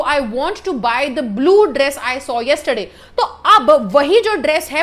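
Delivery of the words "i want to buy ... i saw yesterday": very slow with a little laugh; slow example read with a laugh. Shown as a demonstration. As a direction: drag the sentence out, amused. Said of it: "अगर मैं बोलूँ".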